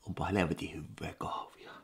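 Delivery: breathy whisper of delight. Acted. Whispering to himself over his coffee, hushed. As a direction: whisper it like a secret pleasure.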